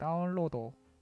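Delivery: "download" said with Japanese-accented English. Imitating how Japanese speakers pronounce English words: Japanese-accented English. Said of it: "일본인들은 영어 발음을 이렇게 합니다".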